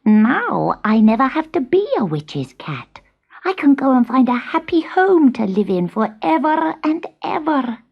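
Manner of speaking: hope dawning through tears; hopeful. Acted. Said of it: "an idea struck him".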